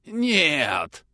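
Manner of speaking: gurgling hoarse rasp. A narrator's reading. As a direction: rasp it like blood in the throat. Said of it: "но уже гораздо тише".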